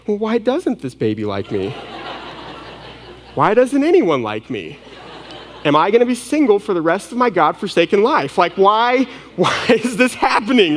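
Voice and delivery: hammed-up self-pity with laughs; mock wail of insecurity, half laughing; mock despair. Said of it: "every insecurity ... rises".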